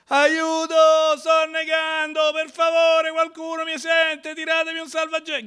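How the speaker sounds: frantic cry for help, high and loud; desperate shout for help. Pretend. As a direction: yell like you're going under. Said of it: "Grida, vero?".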